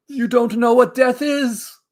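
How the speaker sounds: slow, high and loud, doom-laden warning; Donald Pleasance impression. Mocking critics with a hammed-up Donald Pleasance warning. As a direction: intone it like a horror film doctor. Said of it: "Have you not seen a Donald Pleasance performance?".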